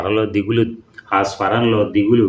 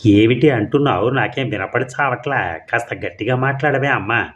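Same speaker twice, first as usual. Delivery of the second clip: mildly fed-up, asking her to speak up; irritated aunt; 2 semitones higher than usual. Acted. Aunt who can't hear her niece, mildly irritated. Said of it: "విసిగింది Lakshmamma".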